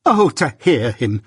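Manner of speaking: slow, mildly screamed exclamation; screamed outrage. Acted. Sister appealing against the journeyman, screamed outrage. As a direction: cry it out, drawn out. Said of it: "a scream together, which was her next stage".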